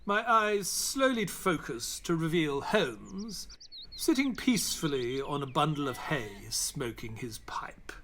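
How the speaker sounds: measured, unhurried storytelling voice; calm first-person narration of the journey; story narration. A narrator's reading. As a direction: tell it like a memoir read aloud. Watson narrates the story between scenes.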